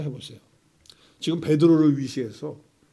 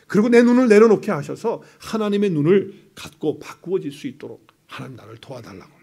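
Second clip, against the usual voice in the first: model prayer; 3 dB louder than usual. Shown as a demonstration. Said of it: "이렇게 기도하셔야 돼요".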